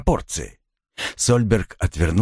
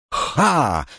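theatrical scoffing ha; 7 semitones higher than usual. Acted. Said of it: "театрально воскликнул он".

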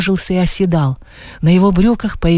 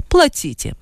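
curt order; 7 semitones higher, slower than usual. A narrator's reading. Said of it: "сказала вторая".

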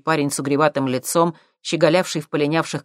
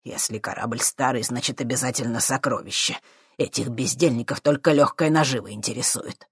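scornful professor; 3 semitones lower than usual. A narrator's reading. Professor scorning treasure hunters, low sneer. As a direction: lecture with disdain.

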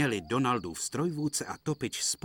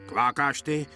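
indignant; 5 semitones higher, 5 dB louder than usual. Acted. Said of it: "řekl Kačer pohoršeně".

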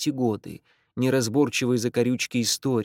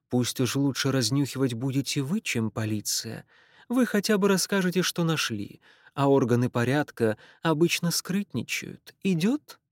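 put-on Irish accent. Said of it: "сильный ирландский акцент".

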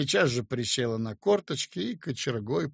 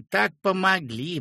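так pitched higher, rising sweetly; gushing repeat; 5 semitones higher, 3 dB louder than usual. A narrator's reading. Peasant woman repeats her thanks, gushing higher. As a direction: top the first take, fawning more. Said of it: "и запела льстиво".

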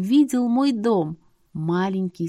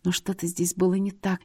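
usual speaking voice

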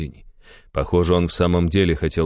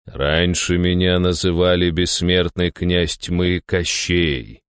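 slow ominous; slower than usual. Acted. Hero reveals dread name.

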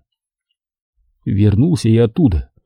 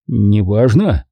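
ordinary delivery, nothing marked

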